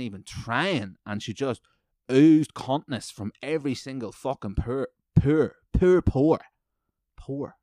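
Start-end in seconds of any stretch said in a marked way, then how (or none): 2.1-7.6 shouting, much higher and louder; sputtering rage. Real, not acted. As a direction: spit out each pore in rising fury. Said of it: "got too mad to speak there".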